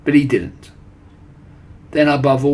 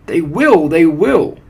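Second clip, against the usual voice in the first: high, loud chanting agreement; excited audience cry; 5 semitones higher, 9 dB louder, slower than usual. A narrator's reading. Witch audience backing their leader, crying out excitedly. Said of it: "cried the audience".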